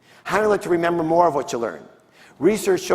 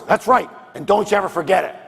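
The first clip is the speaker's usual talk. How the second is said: boastful lion; 4 semitones higher than usual. Acted. Lion gloating in joke.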